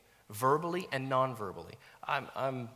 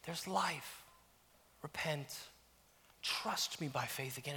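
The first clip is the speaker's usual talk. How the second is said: much softer, gentle nudge; soft spirit voice; 3 semitones higher, 8 dB quieter than usual. Pretend. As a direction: speak it like a soft inner voice. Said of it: "You know what it says?".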